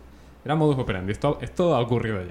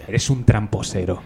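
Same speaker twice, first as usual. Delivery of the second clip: put-on slow kid accusation; 2 semitones lower, 3 dB louder, slower than usual.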